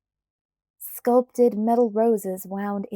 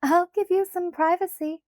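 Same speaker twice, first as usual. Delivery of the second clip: a hint of laughter, much higher; laughing; 10 semitones higher, 4 dB louder than usual. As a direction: say it through a light laugh. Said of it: "Alice laughed".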